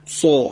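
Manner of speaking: سا darkened, with rounded mouth; heavier emphatic s. Shown as a demonstration. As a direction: model سا as a thick Arabic sad. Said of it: "درشتیشو بیشتر بکنید". («سا» با درشتی زیاد)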